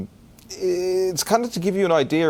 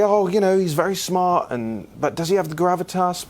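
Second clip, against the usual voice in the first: mock doubting listener; 6 semitones higher than usual. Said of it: "you might say".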